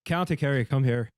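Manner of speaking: hammed-up Irish accent; mock County Kerry accent; bad Irish accent. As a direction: put on a dreadful Irish brogue. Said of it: "that was dreadful".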